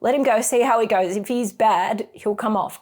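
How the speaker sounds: lightly voiced husband talking her down. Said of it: "And he's going".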